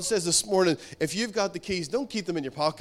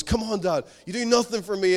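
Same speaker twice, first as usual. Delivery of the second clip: raised, exasperated plea to dad; insistent pleading son; 3 semitones higher than usual. Retold or imitated. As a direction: imitate a son pressing his father. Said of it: "he really goes for it".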